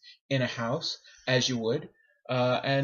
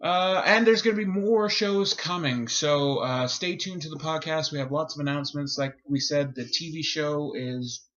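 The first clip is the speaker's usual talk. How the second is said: announcer voice. Acted. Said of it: "Here comes the voice".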